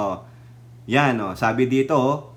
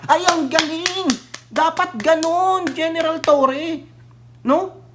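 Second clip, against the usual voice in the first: mock praise; 9 semitones higher than usual. Sarcastic praise of the general.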